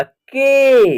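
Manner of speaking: के with a long, held ay; letter pronunciation. Shown as a demonstration. Teacher showing how K is said, के held long. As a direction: draw out the vowel of के. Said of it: "तो इसका उच्चारण करेंगे".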